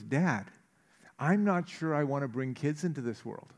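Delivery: quietly serious confession; serious somber. Retold or imitated. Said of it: "in a very serious way".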